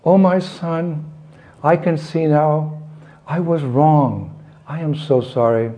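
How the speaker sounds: mock crying. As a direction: draw out the remorse, lightly acted, no real sobs. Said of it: "and she cried".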